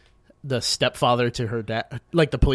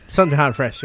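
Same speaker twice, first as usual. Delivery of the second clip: repeated through a laugh; faster than usual. Retold or imitated. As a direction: say it again, giggling. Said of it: "It's like".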